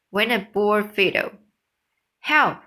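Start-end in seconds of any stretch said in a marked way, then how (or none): 2.2-2.6 high, loud cry for help; scream for help. Acted. Startled clerk screaming to everyone in the store, high and loud. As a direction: shriek it in panic. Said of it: "screamed the clerk".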